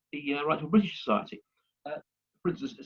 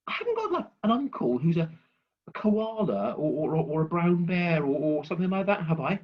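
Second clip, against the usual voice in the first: put-on baby bear; 3 semitones higher than usual. Baby bear voiced in joke.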